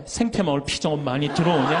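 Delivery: same question again with a laugh; mock-weary rerun of the call; amused repeat. Priest laughs, repeating the classmate's monthly question. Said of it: "다음 달에 또 전화해".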